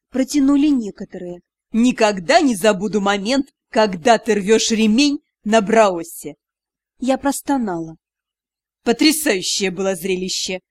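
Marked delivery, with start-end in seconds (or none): 1.7-6.3 teasing mentor. Acted. Magister teases about past scene. 8.8-10.6 mocking praise. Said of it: "продолжает издеваться".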